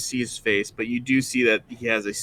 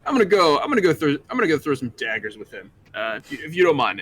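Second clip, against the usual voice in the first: Alex; 4 semitones higher, 3 dB louder, faster than usual. Acted. Alex excuses himself, gm voices.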